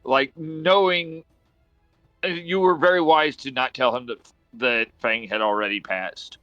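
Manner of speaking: lightly voiced solemn lizard priest; lightly voiced lizardfolk. GM voices Grub character.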